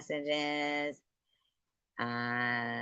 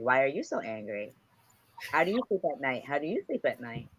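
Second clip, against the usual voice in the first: Madea imitation; faster than usual. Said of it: "Madea's like".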